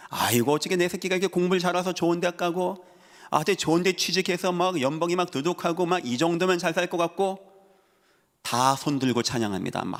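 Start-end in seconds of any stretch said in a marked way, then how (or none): 0.1-7.4 higher, level run of happy gushing; lightly voiced delighted parent. Preacher playing a parent thrilled by good college and job, mildly gushing. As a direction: gush a little over your child's success.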